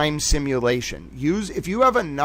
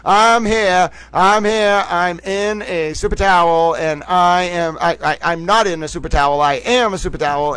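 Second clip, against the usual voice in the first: 1940s news announcer; 3 semitones higher than usual. Acted. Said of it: "I am in entering nineteen forties news announcer mode".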